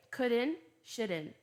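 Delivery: "Couldn't, shouldn't" ending on N, no T; American "Couldn't, shouldn't" with unsaid T; silent T, American. Shown as a demonstration. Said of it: "O T, ele geralmente não sai no americano".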